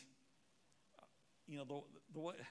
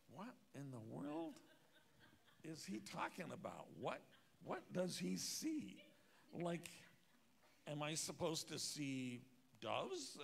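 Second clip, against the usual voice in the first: slow, baffled questioning, rising at the ends; puzzled inner voice. Retold or imitated. Skeptic pastor wondering what Wimber sees, baffled. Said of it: "And I'm thinking".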